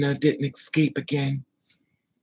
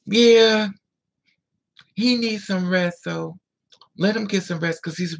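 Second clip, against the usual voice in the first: higher, louder imitated phone talk; mock-casual father, pitched up; father covering up; 4 semitones higher, 6 dB louder than usual. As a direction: put on a breezy cover story.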